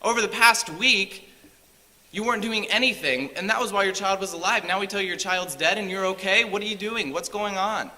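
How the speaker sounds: baffled pleading; confused servants. Retold or imitated. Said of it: "servants are confused at this point".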